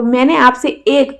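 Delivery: "एक" stressed and drawn out, slowly. Shown as a demonstration. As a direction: hit "एक", only one book. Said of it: "सिर्फ और सिर्फ एक किताब मांगी थी". ("एक" पर ज़ोर देकर)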